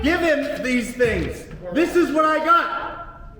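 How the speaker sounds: heated yell, half laughing in disbelief; angry shout. Real, not acted. Defendant demanding the clerk take papers, angry shout. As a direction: bark it at the clerk.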